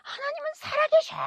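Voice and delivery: very high, loud proclaiming yell; retold scream at the top of the voice; imitated shouting. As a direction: yell it out like the man's fierce declaration. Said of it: "막 소리를 지르는 거예요".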